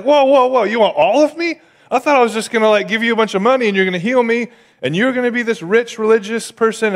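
a general balking, hands up in disbelief; indignant Naaman. Acted. Naaman outraged at the request.

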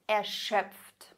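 a spent, breathless whisper; exhausted whisper. Shown as a demonstration. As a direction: breathe it out, worn out. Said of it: "whispered exhausted gloss".

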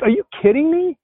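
high, excited "are you kidding me"; thrilled disbelief at how good she sounds; amazed disbelief. Retold or imitated. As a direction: blurt it out in delighted shock. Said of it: "So I'm like".

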